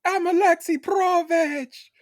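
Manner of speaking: high, slow hammed-up Russian shout; Russian accent. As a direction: bellow it like a cartoon Russian villain. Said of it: "be like my man Paul Giamatti in".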